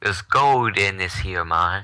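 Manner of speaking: slow, light cowboy prospector drawl; old prospector voice. Pretend. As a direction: play a slow old gold miner.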